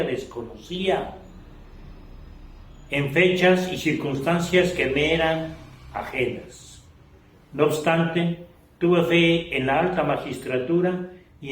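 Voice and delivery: measured declamation of a written testimony, phrase by phrase; solemn literary reading. Acted. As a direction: read it out like a prose poem, with deliberate pauses. Reads written testimony aloud. (lectura solemne y declamada de un testimonio)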